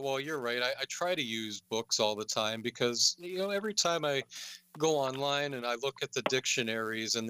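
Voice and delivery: mock-earnest concession, pitch often lifted; sarcastic agreement. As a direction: agree with exaggerated sincerity, tongue in cheek. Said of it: "I'm being sarcastic".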